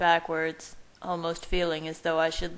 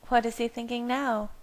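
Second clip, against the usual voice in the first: amused woman; 6 semitones higher than usual. A narrator's reading. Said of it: "and she laughed".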